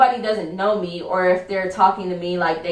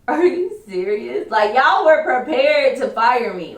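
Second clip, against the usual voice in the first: slow, mildly incredulous challenge; retold disbelief; 4 semitones higher, 4 dB louder than usual. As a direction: lightly re-enact stunned indignation, drawn out. Retold reaction to being fired instantly.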